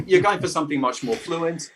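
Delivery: fluent, slightly sexy voiceover read; smooth it out like a cheesy advert. Shown as a demonstration. Actor shows interviewer what sells, cheesy voiceover. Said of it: "this sounds like terrible cheesy voiceover".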